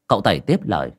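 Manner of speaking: ordinary delivery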